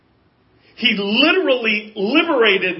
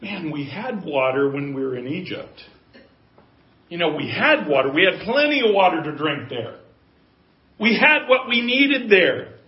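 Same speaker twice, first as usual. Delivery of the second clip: grumbling. Retold or imitated. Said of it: "saying the same things over and over again".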